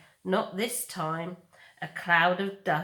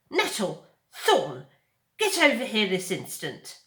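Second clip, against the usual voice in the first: louder, commanding mother bear; stern calling; 2 semitones higher, 5 dB louder than usual. Acted. Mother Bear ordering her fighting cubs, louder. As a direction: call the cubs to heel.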